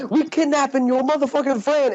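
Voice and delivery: mock menacing Kevin Hart. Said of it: "he's like".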